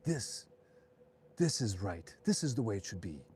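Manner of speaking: put-on approving mom with a light German accent; lightly imitated German accent, measured approval; German-accented mother. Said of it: "in her thick German accent".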